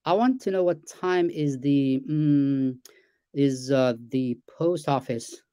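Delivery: slow, hesitant question with fillers; natural halting speech. Shown as a demonstration. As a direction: ask like real people do, umming midway. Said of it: "that's how I talk".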